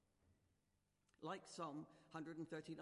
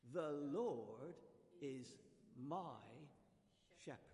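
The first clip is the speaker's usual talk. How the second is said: confident recital; much slower than usual. Shown as a demonstration. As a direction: declare it once more. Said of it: "One more time".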